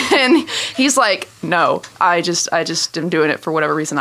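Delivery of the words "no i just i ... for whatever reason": lightly voiced man backing down; caught-out man. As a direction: lower voice, sheepish admission. Faker admits it when asked.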